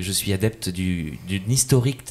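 halting, tripping on the words; stumbling over words. Real, not acted. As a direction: trip over the line. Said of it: "moi-même, je bégaye".

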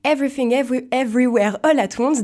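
English film title read with a French accent. Real, not acted. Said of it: "désolé pour mon accent".

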